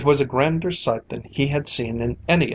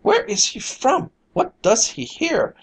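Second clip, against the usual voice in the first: crowd crying out; 11 semitones higher than usual. A narrator's reading. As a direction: shout in alarm at the stranger. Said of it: "catching at his coat and crying".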